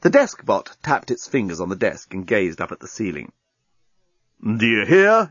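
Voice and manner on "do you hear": exclaiming. Acted. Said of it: "exclaimed Dan".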